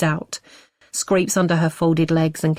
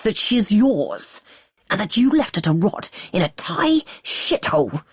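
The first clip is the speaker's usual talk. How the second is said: rising rage; 3 semitones higher than usual. Acted. Husband furious at hidden daughter, rising bitter rage. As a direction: spit out the betrayal.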